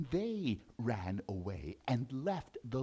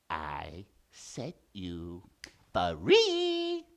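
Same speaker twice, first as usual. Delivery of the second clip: squeaky insistence; 8 semitones lower, 3 dB louder, much slower than usual. Acted. Mouse repeats.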